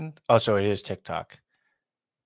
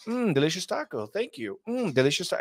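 quicker, clipped repetition of the catchphrase; rushed NPC repeat; 7 semitones higher than usual. Retold or imitated. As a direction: hurry through it like an NPC on a loop. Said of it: "It's like".

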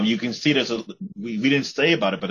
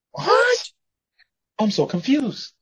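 high baffled squeak; 12 semitones higher, slower than usual. Acted. Onlooker's baffled reaction.

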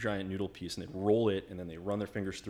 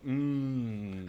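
higher, drawn-out wordless "mm"; pointing hum; 5 semitones higher, 4 dB louder than usual. Retold or imitated. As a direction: hum a long "mm" as if ordering by pointing. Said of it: "I point to something someone's eating".

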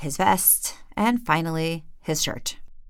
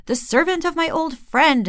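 high, louder, delighted welcome; the king gushing over his guest; enthused; 10 semitones higher, 4 dB louder than usual. Acted. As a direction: greet him like a long-lost friend. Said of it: "enthused the king".

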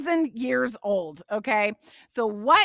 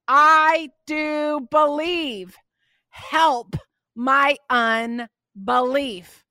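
slow, pleading cry of a desperate father; 5 dB louder, much slower than usual. Acted. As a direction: drag it out like a father begging for help. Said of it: "the boy's father cried out and said".

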